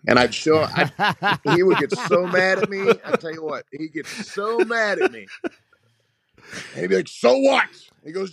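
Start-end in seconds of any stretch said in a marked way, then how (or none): 1.4-5.3 laughing through the words, pitched up; giggling as he tells it; amused, high laughing retelling. Real, not acted. Laughing about coach getting mad. 7.1-7.6 high, loud mock coach snapping back; hammed-up impatient coach; mock coach retort.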